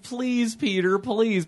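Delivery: soft, slightly high mock plea; begging. Charlie on his knee pleading with Peter, mock begging. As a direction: imitate a kid begging on his knees.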